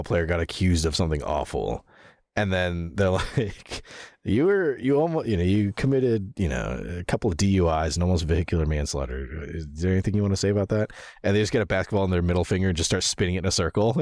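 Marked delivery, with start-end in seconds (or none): 4.2-10.9 mock interviewer. Mock interviewer grilling an athlete.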